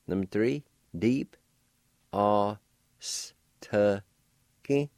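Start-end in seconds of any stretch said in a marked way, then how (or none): 2.1-4.9 Os, te, ki said slowly, syllable by syllable; careful Cherokee pronunciation. Shown as a demonstration. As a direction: sound out Os, te, ki with pauses. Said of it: "now I'll pronounce his words".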